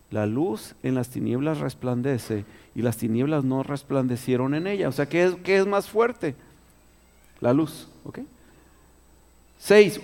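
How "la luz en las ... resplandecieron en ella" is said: slow, deliberate repeat of "La luz en las tinieblas resplandece"; slow reread. Shown as a demonstration. Preacher rereading the verse to the congregation, slow and deliberate. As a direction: let each word of the verse land slowly. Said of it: "rereads the verse to stress it".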